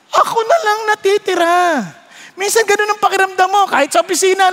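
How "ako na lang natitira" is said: tearful lament. Acted. Elijah lament, cry heard.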